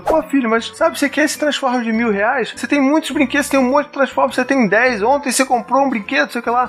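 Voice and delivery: exasperated lecturing parent. Retold or imitated. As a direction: lecture the kid on all the toys he already has. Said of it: "tentar racionalizar tudo".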